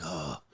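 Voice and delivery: low, soft, worn-out groan; tired groan. Retold or imitated. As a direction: sigh it out like you're exhausted. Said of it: "you're like".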